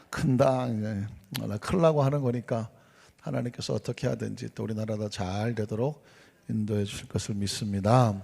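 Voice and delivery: ordinary talk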